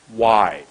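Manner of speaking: a strong, long "why"; lengthened word. Shown as a demonstration. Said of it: "For the W was".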